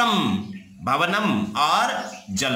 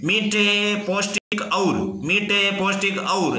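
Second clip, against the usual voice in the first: मीठे, पौष्टिक और with और tacked on at the end; mock wrong Hindi order, और said last; wrong word order demo; 3 semitones higher than usual. Shown as a demonstration. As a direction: put और last, the Sanskrit way, as a wrong example. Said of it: "ऐसे बोलते हैं हिंदी में क्या?".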